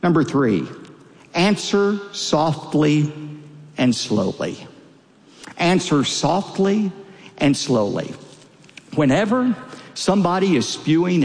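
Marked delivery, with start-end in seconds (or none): 1.3-4.7 slow, deliberate delivery with spaces between words; slow, measured. Shown as a demonstration. Preacher advising how to answer anger, slow and measured. Preacher models his own advice. 5.6-8.1 slow, deliberate delivery with spaces between words; slow, measured. Shown as a demonstration. Preacher advising how to answer anger, slow and measured. Preacher repeats advice, slowing down.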